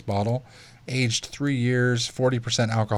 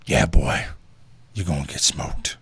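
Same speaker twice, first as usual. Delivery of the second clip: much lower, gruff barking drill sergeant; 8 semitones lower than usual. Retold or imitated. Drill sergeant threatening a recruit over sweet tea, low gruff bark. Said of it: "was like".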